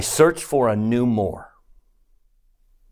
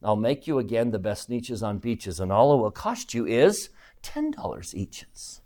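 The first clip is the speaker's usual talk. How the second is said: a hint of a conspiratorial huckster; sly salesman. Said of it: "with a very sly wink".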